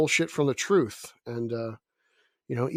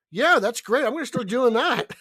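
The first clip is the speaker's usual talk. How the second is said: mock enthusiasm; 7 semitones higher, 4 dB louder than usual. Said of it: "I'm like".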